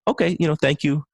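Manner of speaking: mildly polite, receptive reply. Shown as a demonstration. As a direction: demonstrate a courteous thank-you. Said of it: "you can politely say".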